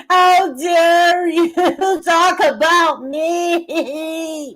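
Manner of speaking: very slow, drawn-out mock indignation; sarcastic imitation of a rival's outrage; mocking quote. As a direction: stretch it out to ridicule her. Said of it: "Nicolina is admonishing X Factor, saying".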